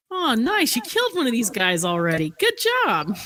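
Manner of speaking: high, swooping congratulations; caged gnome cheering. Acted. Len praising a kill from the cage, gleeful. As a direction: call out delighted praise. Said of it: "from the cage is just like".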